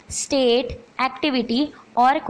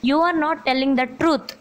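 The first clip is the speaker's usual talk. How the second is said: slow dictation; much slower than usual. Shown as a demonstration. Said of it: "dictating the answer sentence".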